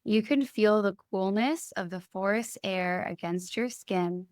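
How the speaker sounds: calm meditation lead with long pauses between phrases; guided meditation. Acted. Doctor leading clients into a forest relaxation, guided meditation. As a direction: guide them gently through breath and imagery, leaving space after each phrase.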